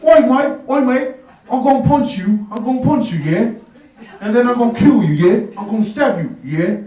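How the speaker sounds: loud, high mock British yob threat; hammed-up London geezer threat; British thug. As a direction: bark it like a cockney hard man. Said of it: "I got into a fight with a British guy once".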